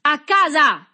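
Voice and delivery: high, loud excited cry; grido infatuato. A narrator's reading. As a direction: send the boy packing with a high shout. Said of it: "gridò l'uomo infatuato". (urlo esaltato e acuto)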